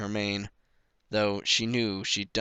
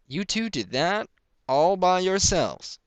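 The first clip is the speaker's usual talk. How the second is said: high, loud, slowed disbelieving question; amazed father; 9 semitones higher, 6 dB louder, slower than usual. A narrator's reading. Pa amazed at his children's hard work. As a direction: marvel at what the kids did.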